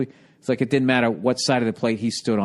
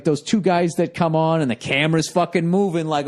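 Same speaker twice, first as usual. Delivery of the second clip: normal talking voice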